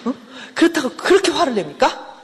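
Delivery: imitating an aggrieved husband, insistent; indignant protest. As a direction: protest to the counsellor with a sharply rising question. Acted husband protesting to the counsellor.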